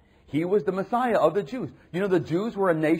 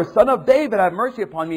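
crying out louder; 5 semitones higher, 6 dB louder than usual. Retold or imitated. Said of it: "he kept crying all the more".

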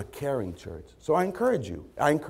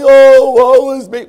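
slow, loud, high mock wail; drawn-out hammed-up lament; poor moaning; 13 semitones higher, 18 dB louder, slower than usual. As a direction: moan it with exaggerated self-pity. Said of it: "Jacob does this poor moaning".

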